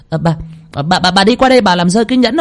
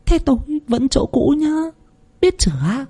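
quick, sneering second wife, pitch jumping higher; scornful scolding; 5 semitones higher than usual. A narrator's reading. Scheming second wife scolds her lover, sneering and fast. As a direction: snap at him with a curled lip. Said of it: "trợn mắt lên lườm nó, cong cái môi lên".

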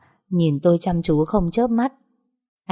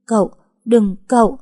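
higher and louder, pushing him away; panicked cry; 4 semitones higher, 4 dB louder than usual. Acted. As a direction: cry out in alarm. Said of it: "kêu lên một tiếng".

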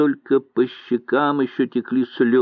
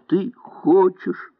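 higher, slower, trembling; 9 semitones higher, slower than usual. A narrator's reading. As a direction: let the voice quiver on хочешь. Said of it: "повторила дрожащим голосом". (дрожащим голосом, выше и медленнее)

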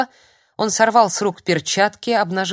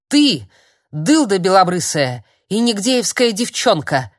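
обличающий крик; 6 dB louder than usual. Acted. Старик кричит в панике.

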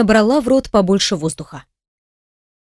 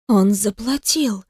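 hoarse near whistle; 3 dB quieter, slower than usual. Acted. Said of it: "Голос Каролины осип окончательно".

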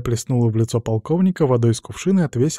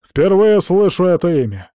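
loud, high indignant protest; 7 semitones higher, 8 dB louder than usual. A narrator's reading. Clark denies knowing Meyron, loud indignation. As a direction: bristle with outrage. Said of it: "возмутился Кларк".

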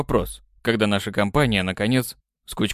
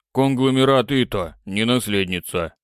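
usual speaking voice

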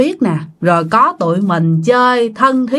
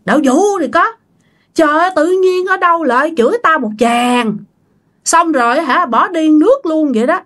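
higher-pitched, indignant retold rant; 4 semitones higher than usual. The speaker swears about the old man who left, mildly acted indignant rant. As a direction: rail away in mock outrage. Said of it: "ông mới chửi nha các bạn".

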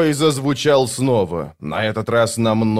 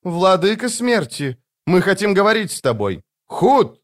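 calling out; 9 semitones higher than usual. A narrator's reading. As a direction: call to the god of death. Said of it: "повысив голос, воскликнула".

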